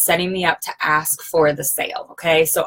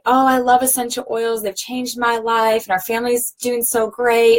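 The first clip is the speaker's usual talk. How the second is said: high, gushing self-praise; 5 semitones higher than usual. Retold or imitated. A seller gushing to guests, high and sugary. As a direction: gush about your own oils, pitched up. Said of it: "and things like that".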